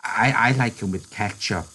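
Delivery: put-on mild patient childlike voice. Lenny telling George he likes ketchup, patient. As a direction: say it simply and patiently. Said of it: "He said patiently".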